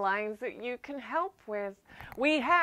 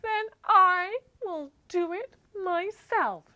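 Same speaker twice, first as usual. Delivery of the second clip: hen voice; 10 semitones higher, 5 dB louder than usual. Acted. Hen answers alone in story.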